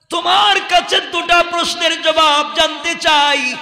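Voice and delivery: high, ringing demand for answers; impassioned preaching. Acted. Prophet questioning the late companion, impassioned preaching. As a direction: question sternly in a carrying sermon voice.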